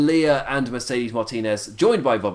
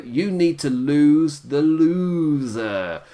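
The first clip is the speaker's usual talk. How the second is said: mock taunt; 3 semitones higher, 4 dB louder, much slower than usual. Quotes a manager's taunt to her.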